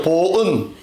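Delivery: 보은 said slowly and clearly as a model; model word for repeating. Shown as a demonstration. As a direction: say 보은 for them to repeat. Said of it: "따라하세요".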